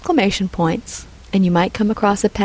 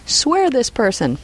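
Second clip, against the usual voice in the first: drawn-out, higher-pitched order; commanding; 4 semitones higher, slower than usual. Acted. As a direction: give the clerk a slow, firm order. Fang orders clerk in novel.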